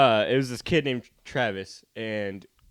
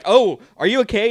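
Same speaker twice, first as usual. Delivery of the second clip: imitated teacher; 11 semitones higher, 12 dB louder than usual. Teacher voiced in story.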